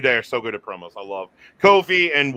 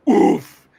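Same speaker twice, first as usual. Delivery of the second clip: higher effort "oof"; imitated heaving noise; 5 semitones higher, 3 dB louder than usual. Host acting out Lashley hurling a couch, imitated oof. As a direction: sound out a heavy throw.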